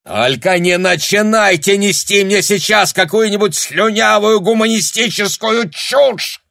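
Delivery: high, loud enraged yelling; furious shout. A narrator's reading. German officer screams at Tanya in the car, furious. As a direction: explode at her in rage. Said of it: "бешено крикнул вдруг Гауптман".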